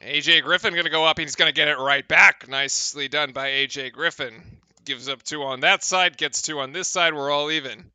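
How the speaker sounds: brisk commentator call; play-by-play. Acted. Streamer calling the game for chat, play-by-play. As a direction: call the action like a broadcaster.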